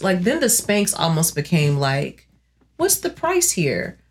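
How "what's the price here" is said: defiant self-justification. Acted. Argues aloud for keeping carbs.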